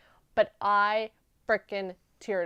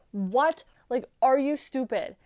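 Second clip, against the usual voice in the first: shocked disbelief; 3 semitones higher, 5 dB louder than usual. Retold or imitated. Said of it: "I'm like".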